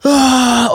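high, drawn-out mock scream; breakdown roar. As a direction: imitate someone cracking up in the street. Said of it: "får mental breakdown sånn på gata". (etterlignet sammenbruddsbrøl)

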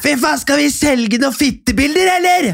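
hammed-up drunk shout, pitched high; mock drunk yell. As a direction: shriek it like a tipsy friend. Drunk friend quoted shouting.

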